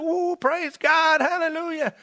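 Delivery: high, drawn-out mock church whoop; imitated rejoicing shouts. Preacher imitating a church dancing over a conversion, mock jubilant shouting. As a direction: play a jubilant congregation without real volume. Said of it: "they're dancing and shouting".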